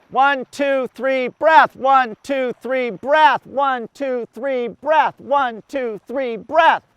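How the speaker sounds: rhythmic count on the swimmer's strokes; steady count with a stress on breath; counting the cadence. Shown as a demonstration. Coach counts strokes for the group, steady rhythmic counting. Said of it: "It's a four count cadence".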